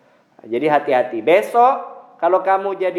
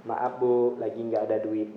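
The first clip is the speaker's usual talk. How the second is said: polite refusal; 5 semitones lower, 6 dB quieter than usual. Shown as a demonstration. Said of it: "Minimal gitu".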